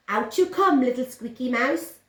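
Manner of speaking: the cat shaking out the sock. Acted.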